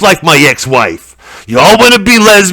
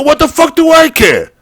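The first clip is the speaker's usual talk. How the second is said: mock outburst; 12 semitones higher than usual. Retold inner outburst.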